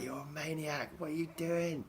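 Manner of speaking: high-pitched mock outrage; mock outraged onlookers. Quoting alarmed onlookers after near miss.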